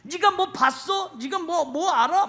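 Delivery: high, loud defiant challenge; acted indignant bluster; big-talking. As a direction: bluster to cover being slighted. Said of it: "더 막 큰 소리 칠 수도".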